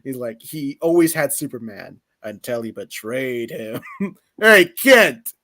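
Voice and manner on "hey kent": loud, higher taunting call. Retold or imitated. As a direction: call the kid out like a bully. Bully calls out to Kent.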